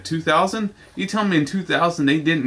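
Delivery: two thousand pushed up high in disbelief; can't believe it's two thousand; incredulous question. Real, not acted. Reviewer scoffing at a late DVD release, incredulous.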